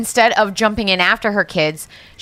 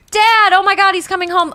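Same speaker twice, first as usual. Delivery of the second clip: high, loud, thrilled squeal; wife spotting her husband's carriage, high and thrilled; excited mom; 12 semitones higher, 4 dB louder than usual. Acted. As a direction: gush like she's won the lottery.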